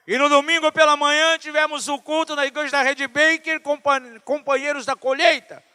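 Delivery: high, driving sermon delivery; full-force preaching. Real, not acted. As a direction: announce it to the whole church at full volume.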